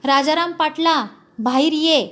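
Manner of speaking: a lightly voiced roaring call; summoning the landlord out of his house; tiger-like roar. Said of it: "वाघ गरजावा तशी आरोळी ठोकली".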